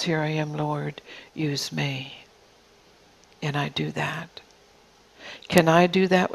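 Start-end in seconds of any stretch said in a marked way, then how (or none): 0.0-2.1 hushed, breathy surrender, voiced as the servant; whispered prayer. The servant's prayer quoted to the congregation, whispered. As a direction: whisper it like a humble vow. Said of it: "But see, she says".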